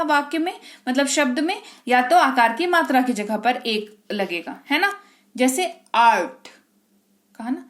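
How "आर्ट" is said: आर्ट with a long open "aa"; long aa sound. Shown as a demonstration. Teacher giving an example, long drawn "aa". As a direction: stretch the vowel in आर्ट, "aart". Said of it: "अब ए का उच्चारण आ".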